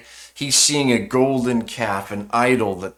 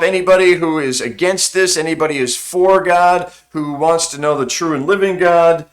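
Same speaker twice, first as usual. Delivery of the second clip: calling out; 5 semitones higher, 4 dB louder than usual. Acted. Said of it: "he calls to himself".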